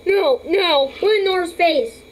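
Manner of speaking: very high, loud, stretched squeals; excited shrieking. Real, not acted. Owner squealing loudly at the pet's face. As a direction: shriek with delight at the pet.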